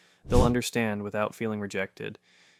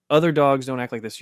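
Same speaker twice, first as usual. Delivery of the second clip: louder, fast, exasperated owner scolding the dog; frustrated owner; 2 semitones higher, 6 dB louder, faster than usual. Retold or imitated. Owner comparing the dog to others, frustrated and fast. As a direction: snap it out like a fed-up owner. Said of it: "It becomes frustrated".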